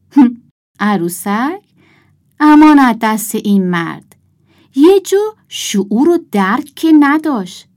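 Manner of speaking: huffy, disgusted complaint. A narrator's reading. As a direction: scoff in exasperated disdain. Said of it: "صدایی از سر انزجار در آورد".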